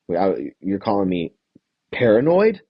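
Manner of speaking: mock pissed-off disbelief, leaping up on the last word; lightly acted affront; David. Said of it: "David is pissed off, dude".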